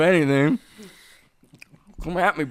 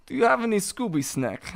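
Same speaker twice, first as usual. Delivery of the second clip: put-on Russian accent; 3 semitones higher, 4 dB quieter, faster than usual. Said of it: "Say it in a Russian accent".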